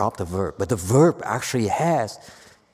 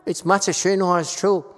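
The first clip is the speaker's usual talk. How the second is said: mocking quote; 6 semitones higher, 5 dB louder than usual. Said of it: "Don't say".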